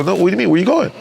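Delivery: high-pitched retold protest; alarmed protest. Organizer to the man walking off with the money, alarmed. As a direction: re-enact stopping someone who's slipping off, pitch jumping up.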